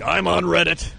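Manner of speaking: a hint of a fed-up friend complaining; ranting friend. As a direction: friend griping about Reddit, mock rant. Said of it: "He would always be like".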